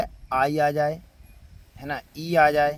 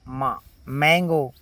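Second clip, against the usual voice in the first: slow sounding out; much slower than usual. Shown as a demonstration. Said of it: "एम को मा".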